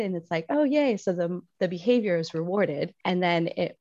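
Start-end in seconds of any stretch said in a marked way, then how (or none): 0.5-1.0 much higher, bright mock cheer; excited cheer. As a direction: squeal a happy yay. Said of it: "you get very excited".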